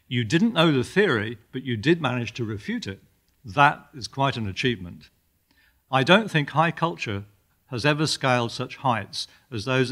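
measured lecture-hall reading of a comic passage; lightly dramatised literary narration; story reading. A narrator's reading. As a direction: read it out with emphatic opening words.

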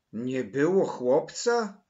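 loud, drawn-out incredulous question; insistent. A narrator's reading. Maryla questions Mateusz about the missing boy, insistent disbelief. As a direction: throw it back in loud disbelief. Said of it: "nalegała Maryla".

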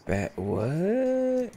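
startled yelp. Real, not acted. Startled by something in game.

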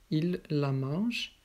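"il la mange" very slow, with "la" set apart; emphasis on LA. Shown as a demonstration. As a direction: draw out "il la" for learners. Teacher models object pronoun. (insister lentement sur « la »)

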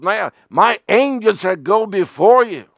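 God thundering a warning to Moses; stern warning. Retold or imitated. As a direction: warn them like God would. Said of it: "He said".

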